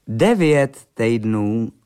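DEVĚT said slowly, each syllable drawn out; slow, deliberate correction on „Devět“; correcting. A narrator's reading. Stepfather corrects his drinking friend, slowly stressing „Devět“. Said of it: "opravil ho otčím".

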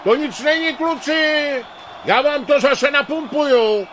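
put-on high shouted old father's yell; bellowing old man. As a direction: bellow it across the pitch. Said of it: "hulákal starý Klapzuba".

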